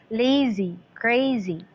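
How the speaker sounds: "Lazy, crazy" as LA-zy, CRA-zy, each falling; stressed then unstressed. Shown as a demonstration. Teacher showing the rhyme pattern, first-syllable stress. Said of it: "Yun na na iyang pattern".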